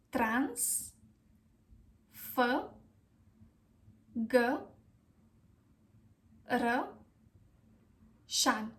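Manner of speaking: Trans, fă, gă, ră, șan with long gaps; each piece of Transfăgărășan alone, ă as uh; syllable by syllable. Shown as a demonstration. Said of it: "The correct pronunciation is".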